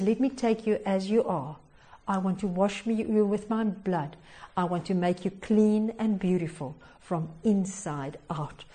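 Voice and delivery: soft, low, unhurried reassurance; quiet, sincere invitation, fading at the end; tender promise. Acted. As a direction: speak gently as God to the listener. God speaks tenderly to sinners.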